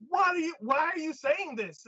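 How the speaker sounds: high wailing woman voice; hammed-up distraught woman; mock distraught woman. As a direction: wail it high in put-on despair.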